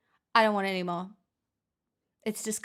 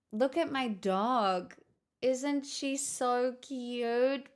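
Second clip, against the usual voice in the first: cooing at dog; 2 semitones higher, much slower than usual. Real, not acted. Showing off her dog.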